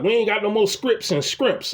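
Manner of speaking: "scripts and scrimps" जैसा, strips और shrimps को scripts और scrimps बोलते हुए; mispronounced strips and shrimps. Retold or imitated. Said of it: "The fuck is scripts and scrimps?".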